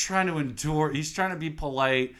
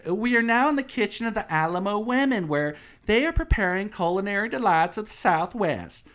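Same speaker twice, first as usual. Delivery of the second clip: fake tour guide; 7 semitones higher, 3 dB louder than usual. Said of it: "fake-ass tour guide".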